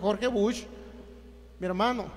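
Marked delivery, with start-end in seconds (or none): 0.0-0.6 "Jorge" said HOR-heh, Spanish style; "Jorge Bush" in plain Spanish sounds, two-syllable "Jorge"; Spanish reading. Shown as a demonstration. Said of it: "algo le pusieron".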